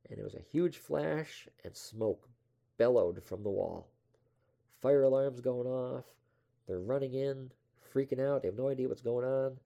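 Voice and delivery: excited. Real, not acted. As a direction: tell the explosion with a rush. Climax of the story.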